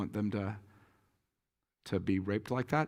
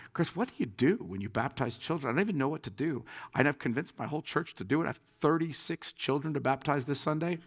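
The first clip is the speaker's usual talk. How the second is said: slightly higher, mildly flustered appeal; retold anxious plea; 4 semitones higher than usual. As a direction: act out asking a friend for help. Retold anxious phone call for help.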